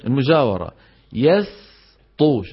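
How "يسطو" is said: "يسطو" slowly with a thin, held س; light seen. Shown as a demonstration. Teacher showing clarity, "يسطو" with a light س. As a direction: keep س light before ط in "يسطو". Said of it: "شو لازم يبين؟".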